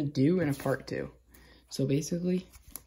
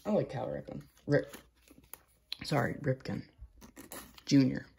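talking while chewing gum. Real, not acted. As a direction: gum in the mouth. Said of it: "Sorry for the gum chewing".

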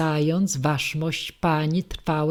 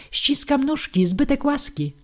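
much higher, sing-song servile farewell; hammed-up fawning bow; 9 semitones higher than usual. Papkin bows out to Podstolina with hammed-up flattery. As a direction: overdo the flattery on the way out.

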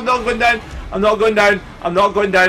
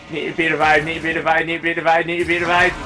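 muttered repeated plea; much faster than usual. Real, not acted. Downed, repeats plea for revival.

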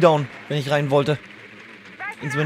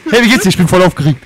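a hint of an excited dog, louder; 6 dB louder, faster than usual. Friend voicing a dog back from roaming, playfully excited. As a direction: lightly act out an overexcited dog. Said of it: "Und ist total aufge".

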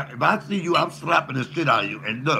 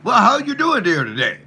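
mimicking Chip; 7 semitones higher, 6 dB louder than usual. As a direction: ham up a chirpy square voice. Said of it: "I was like, "Landon".

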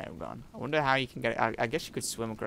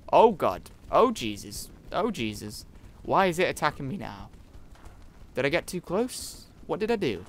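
loud, higher frightened cries; frightened yelps; 4 semitones higher, 5 dB louder than usual. Real, not acted. Player fleeing a mole rat, loud frightened cries. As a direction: panic while being chased.

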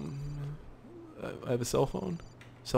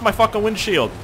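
angry yell; 10 semitones higher, 7 dB louder than usual. Real, not acted. Zombie on windshield.

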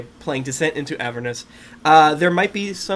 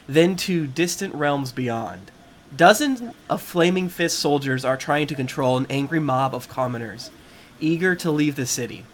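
measured scene-setting narration; story narration. Acted. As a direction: read it like a game master's intro. Reads the adventure intro.

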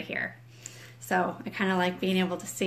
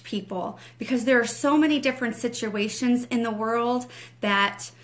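fervent prayer; 2 semitones higher than usual. Acted. Ministry director opens the morning teaching in prayer, fervent rising prayer. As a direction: pour it out to God, rising as you go.

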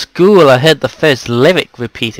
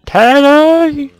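calling out; 14 semitones higher, 7 dB louder, much slower than usual. Real, not acted. Calling out to pet.

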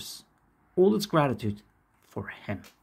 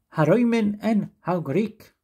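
put-on Italian accent; 6 semitones higher, 4 dB louder than usual. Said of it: "I put that accent out wrong".

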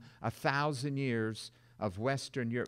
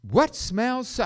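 startled landlord; 8 semitones higher, 7 dB louder than usual. Pretend. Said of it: "landlord of that trailer camp".

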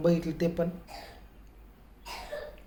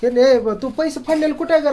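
loud, higher urgent question; raised asking; 8 semitones higher, 8 dB louder than usual. Real, not acted. Father loudly asks family where the torn money is. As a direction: demand it loudly across the room.

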